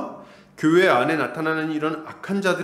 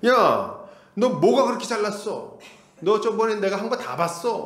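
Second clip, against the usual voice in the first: higher, put-on scolding snap; mock defensive retort; 5 semitones higher than usual. Rebuked brother snapping back, mock angry. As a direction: act out a brother lashing back. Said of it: "반응이 막 이래요".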